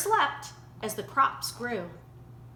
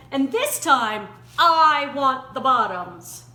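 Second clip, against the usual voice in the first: louder, indignant bear protesting; louder, put-upon bear voice; aggrieved Bear; 5 dB louder than usual. Acted. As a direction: complain like a cheated big bear. Bear complains of trickery.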